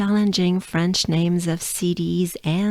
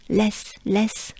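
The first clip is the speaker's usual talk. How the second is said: less with a French accent; French-accented less, crisp and separate; 2 semitones higher than usual. Shown as a demonstration. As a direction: say less as a French speaker would. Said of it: "with a French accent".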